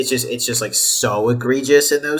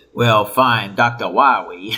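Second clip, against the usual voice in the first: put-on cartoon speech impediment, much slower; 2 semitones lower than usual. Recalling a Mega Man Eight cutscene, doing Doctor Light's Elmer Fudd impediment. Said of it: "has the Elmer Fudd syndrome".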